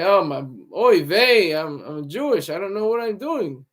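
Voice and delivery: hammed-up, badly faked Jewish accent; terrible Jewish accent. Comedian mocking a stereotype, terrible Jewish accent. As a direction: do a bad stereotyped Jewish accent, stretching the opening exclamation. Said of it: "That's my terrible Jewish c-, accent".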